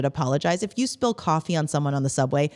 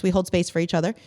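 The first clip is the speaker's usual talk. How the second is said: ordinary delivery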